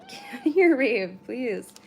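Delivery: sudden loud high shoo; shooing the cat. Real, not acted. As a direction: shoo the cat away, sharply.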